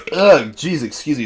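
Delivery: hiccuping between words. Real, not acted. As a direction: talk through a hiccup. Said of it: "burping and hiccuping".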